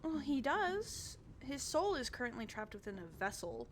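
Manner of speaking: high, bubbly noble lady; cheerful Adela. Acted. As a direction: chirp it up like an eager hostess. Adela explains.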